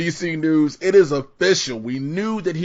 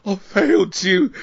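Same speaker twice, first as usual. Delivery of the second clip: imitating Michael Caine crying; 6 semitones higher, 4 dB louder than usual. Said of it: "He's like".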